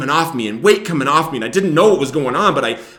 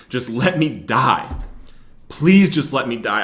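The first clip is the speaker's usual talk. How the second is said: tearful plea; slower than usual. Retold or imitated. Praying in the car while weeping.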